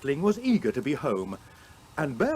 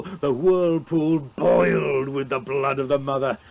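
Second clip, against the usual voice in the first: boastful hero's tale. Acted. Beowulf tells his fight.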